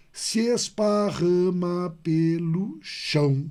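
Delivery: slow, syllable-by-syllable scansion of "esparrama"; scanning syllables. Shown as a demonstration. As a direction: count out "Se esparrama pelo chão" slowly, beat by beat. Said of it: "E ele continua, ó".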